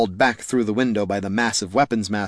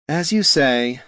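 resigned sigh in the words; a touch of wistful resignation; 4 semitones higher, slower than usual. Acted. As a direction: give in with a mild sigh. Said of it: "sighed the bard".

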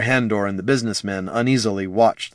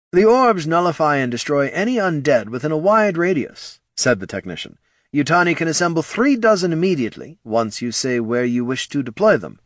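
higher, fawning servant voice; bow and scrape with your voice; obsequious technician; 6 semitones higher than usual. Acted. Technician presents results.

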